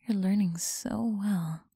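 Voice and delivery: teasing close whisper; breathy whisper to a listener. Acted. Whispered praise.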